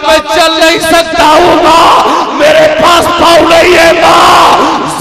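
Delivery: high, loud, half-sung wail; loud chanted lament of a crippled son. Acted. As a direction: wail it out to mother, sing-song and loud.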